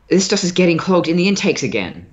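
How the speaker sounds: filtered voice. Acted. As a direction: talk as if through a crackly comm line.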